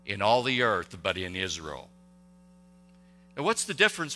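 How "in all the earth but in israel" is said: awed confession. Retold or imitated. Naaman's awed confession, slow.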